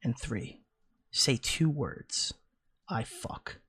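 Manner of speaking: lightly voiced mouthy Buddha; slow, low, insolent mock-sage read. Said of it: "read this in a mouthy Buddha voice".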